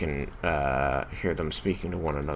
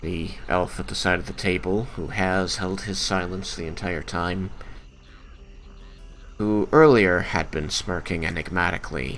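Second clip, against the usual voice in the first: game master narration. A narrator's reading.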